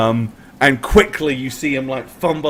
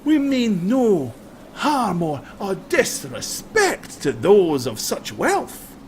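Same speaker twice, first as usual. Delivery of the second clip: mock humble robber; 4 semitones higher than usual. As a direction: feign humility, then demand it all. Highlander feigns humility, then demands belongings.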